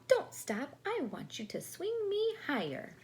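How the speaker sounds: high, loud whiny doll plea; doll crying out. Acted. The doll cries out to Natasha, high and whiny. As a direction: wail it up high, don't let her stop. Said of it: "cried the doll".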